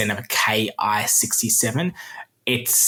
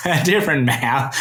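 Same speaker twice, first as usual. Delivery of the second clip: "a different Mao" said through a laugh, pitch up and louder; chuckling at his own pun on "Mao"; 4 semitones higher, 4 dB louder than usual. Real, not acted. Repeats the Mao joke laughing.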